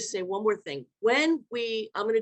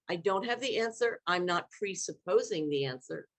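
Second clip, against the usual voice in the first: respectful question. Shown as a demonstration. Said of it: "to say".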